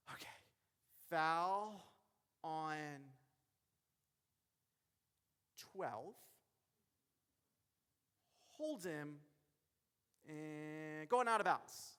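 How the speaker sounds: hesitant, halting delivery with long pauses; unsure referee. Acted. Referee nervously announcing a foul to the crowd, hesitant and halting. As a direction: stall and stumble through the call, dragging it out. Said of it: "You will never see a basketball referee say".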